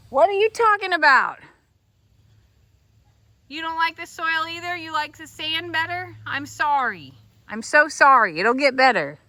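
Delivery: high, loud pet-talk comfort. Real, not acted. Farmer comforting her pig in high pet talk. Consoling a pig about soil.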